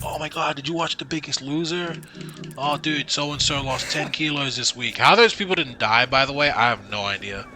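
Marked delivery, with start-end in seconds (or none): 0.0-5.0 higher, gushing schoolkid voice; excited gossip. Retold or imitated. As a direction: gush about it like a classmate. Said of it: "people would be like".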